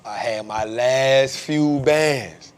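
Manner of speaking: slow, drawn-out buddy voice, a hint of bravado; lightly voiced friend bragging slowly; imitating his friend. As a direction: drag it out proudly like the friend. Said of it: "He be like".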